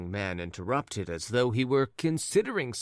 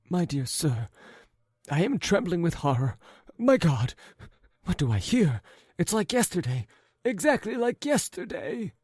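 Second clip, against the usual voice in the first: higher, louder, quickening alarm; horrified; 9 semitones higher, 4 dB louder than usual. Acted. Jealous husband hearing of the blue hat, rising alarm. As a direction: let the horror rise.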